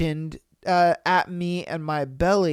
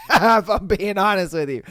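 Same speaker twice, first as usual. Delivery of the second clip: laughing; 5 dB louder than usual. Real, not acted. Laughing at Catfish stats.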